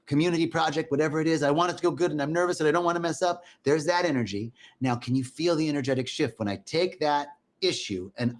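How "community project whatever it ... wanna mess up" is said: acted nervous worrier; a touch of fretting. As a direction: run the worries together in a mildly anxious voice. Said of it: "remember that feeling of".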